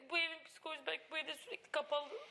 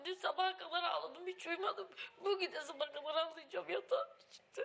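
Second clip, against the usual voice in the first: laughing through tears; 4 semitones higher than usual. Real, not acted. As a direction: laugh out the crying confession. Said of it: "Ağlama".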